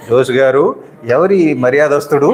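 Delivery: measured, respectful question; polite asking. Shown as a demonstration. Interpreter shows how to address Jose, politely. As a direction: demonstrate a courteous way to ask. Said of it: "అని అడగాలి".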